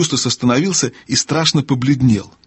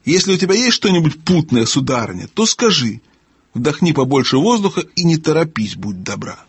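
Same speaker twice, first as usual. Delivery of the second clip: lightly voiced higher gnome; testy gnome, condescending; 4 semitones higher than usual. Gnome telling the owl to speak clearly, testy. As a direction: instruct with weary impatience, dropping at the end.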